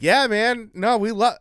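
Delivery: mock French official, pitched high; French accent. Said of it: "French accent".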